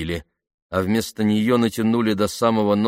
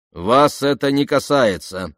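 loud, raised, deliberate rebuke; cutting him off; 6 semitones higher, 5 dB louder, slower than usual. A narrator's reading. Officer silences a nosy soldier, curt rebuke. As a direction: shut him down firmly, word by word. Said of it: "оборвал его тот".

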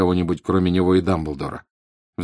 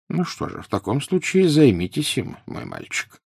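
gently; 7 semitones higher than usual. A narrator's reading. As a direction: speak it gently to the boy. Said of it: "мягко сказал Дамблдор".

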